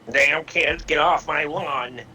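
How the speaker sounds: put-on grumpy old man. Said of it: "one of those grumpy ones".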